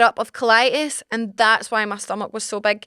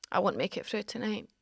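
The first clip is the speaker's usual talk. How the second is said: very soft, melodramatic near-whisper; hammed-up dying hush; dramatic faint murmur; 3 semitones lower, 14 dB quieter than usual. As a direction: fade out like someone on their deathbed. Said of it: "Megan, you're being dramatic".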